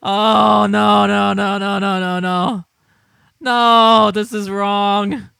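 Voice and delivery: can't take it, laughing; laughing protest. Real, not acted. Streamer laughing helplessly at the replies.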